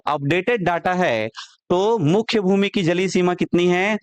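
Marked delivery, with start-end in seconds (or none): 0.1-1.3 अपडेटेड डाटा है given firm weight on डाटा; अपडेटेड डाटा है with a firm falling emphasis; stress on updated data. Shown as a demonstration. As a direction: press अपडेटेड डाटा so students remember. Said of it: "जोर देके बोल रहा हूं".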